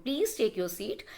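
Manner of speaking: "Please take your seat" lifting at the end; rising tone. Shown as a demonstration. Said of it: "a request with a high tone".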